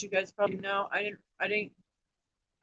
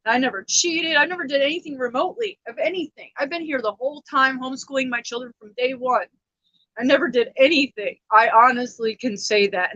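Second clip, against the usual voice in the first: upset insistence; 3 semitones higher, 5 dB louder than usual. Real, not acted.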